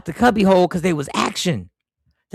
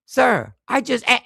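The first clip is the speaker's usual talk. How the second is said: mildly raised retold voice, higher pitch; 5 semitones higher than usual. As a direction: imitate a firm raised voice, slowly. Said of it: "and he raises his voice".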